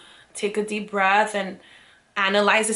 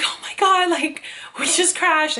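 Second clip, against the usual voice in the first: laughing disbelief; 8 semitones higher than usual. Retold or imitated. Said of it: "immediately start cracking up".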